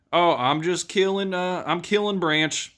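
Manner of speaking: hammed-up offhand confession; casual reply. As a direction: toss it off like it's nothing. The speaker answering casually.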